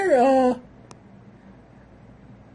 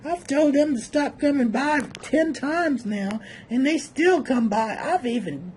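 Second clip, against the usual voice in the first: a lightly voiced fed-up woman, muttered; bored woman's inner voice. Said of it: "She's like".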